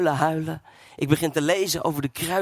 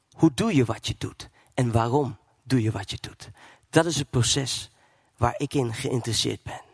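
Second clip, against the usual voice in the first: voice of God; 4 semitones lower than usual. Retold or imitated. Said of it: "En God die spreekt tot me".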